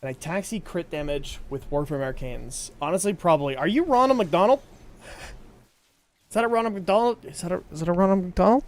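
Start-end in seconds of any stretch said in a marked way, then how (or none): 3.6-4.6 excited teasing. Real, not acted. Teasing a viewer's outfit. 6.3-8.6 playful teasing question; mock amazement, quick. Real, not acted. Teasing a viewer's outfit.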